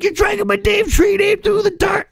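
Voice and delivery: high mock whine of the angry namesakes; mocking offended namesake. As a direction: squeal it like a petty complainer. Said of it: "They're like".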